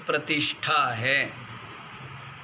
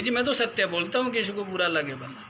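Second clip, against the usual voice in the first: mocking a boastful truth-teller; much faster than usual. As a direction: parody the self-proclaimed honest man. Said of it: "खुद ही certificate देने वाले".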